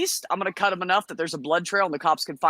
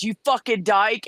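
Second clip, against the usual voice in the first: imitated insult yell; 4 semitones higher, 3 dB louder than usual. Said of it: "And he yells".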